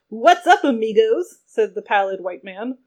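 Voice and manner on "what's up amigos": surfer bro voice. Acted. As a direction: greet like a hyped-up surfer salesman. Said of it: "a cross between Wolf of Wall Street and California Beach Bum".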